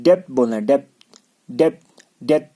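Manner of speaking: डेप्थ said as "det", with no voiced B; silent B. Shown as a demonstration. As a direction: repeat डेप्थ as a drill, B left out. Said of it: "बी को आपको पढ़ना ही नहीं है".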